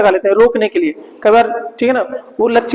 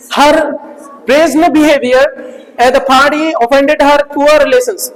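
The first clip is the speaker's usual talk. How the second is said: slow, drawn out reading of the sentence; slow dictation; 2 semitones higher, much slower than usual. Shown as a demonstration. Teacher dictates example sentence slowly to students. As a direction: spell it out slowly for the class. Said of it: "reads example sentence aloud".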